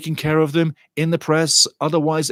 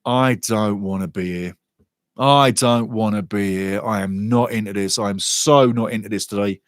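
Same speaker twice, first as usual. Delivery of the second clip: mock reluctant moan; 5 semitones lower than usual. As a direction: drag the words out like you'd rather be anywhere else. Pre-match joke in the booth.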